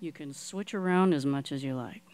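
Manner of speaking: breathy hushed aside to the guest; whisper. Real, not acted. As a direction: drop to a secret whisper on air. Host whispers reply on air.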